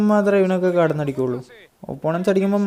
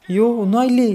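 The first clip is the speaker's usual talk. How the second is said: high, louder groan of disbelief; dismayed cry; 7 semitones higher, 4 dB louder than usual. Real, not acted. Gamer reacting to a miss, high dismayed cry. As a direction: cry out at the wasted chance. Missed chance.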